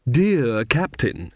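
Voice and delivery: very slow, languorous address; flirtatious lady. Acted. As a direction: draw it out like a coquette favouring an admirer. Magrat flirts with the captain.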